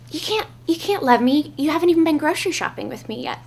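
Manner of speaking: high laughing mock-protest, imitating him; playful quoted boyfriend. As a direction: laugh through his teasing words as you quote him. Quoting his playful reply.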